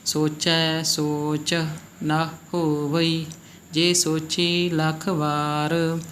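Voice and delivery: very slow, measured recital with long vowels; scripture recitation. Shown as a demonstration. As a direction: recite the verse word by word for learners. Recites scripture stanza as model.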